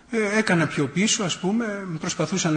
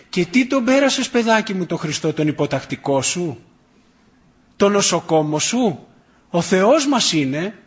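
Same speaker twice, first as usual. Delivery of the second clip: indignant retort; 2 semitones higher, 4 dB louder than usual. Retold or imitated. Grandmother sets her cheeky grandson straight about God, indignant. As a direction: scold with rhetorical questions, stretching the last ones.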